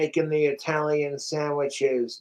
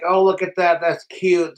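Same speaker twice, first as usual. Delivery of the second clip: lifted, slightly louder mock coo; mock admiration; 4 semitones higher, 4 dB louder than usual. Guitarist belittling himself beside his idol, mock admiration. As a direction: patronise your own small effort.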